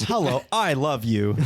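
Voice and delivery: cartoon talking-dog greeting; a lightly voiced simple, loving dog; Doug. Talking dog greeting its owner, simple dog voice. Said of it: "It'd be Doug from Up".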